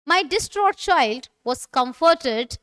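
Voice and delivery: slow, careful teacher reading; slow model sentence. Shown as a demonstration. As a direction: read it slowly for repetition. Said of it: "repeat after me". (धीमे, स्पष्ट उच्चारण में)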